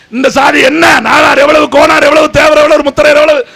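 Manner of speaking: high, loud list hammered out; rally shouting. Real, not acted. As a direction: shout each caste to the crowd. Listing castes at a rally.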